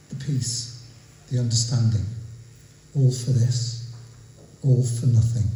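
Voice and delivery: measured recital building to a closing line; deliberate spoken verse with weighted pauses; poetry reading. Acted. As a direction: read each short phrase as its own line of verse. Reads own poem aloud.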